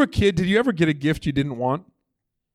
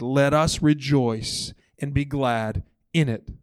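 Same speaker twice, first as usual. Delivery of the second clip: reverent scripture read; 2 semitones lower, slower than usual. Real, not acted. Quoting Psalm 118:24.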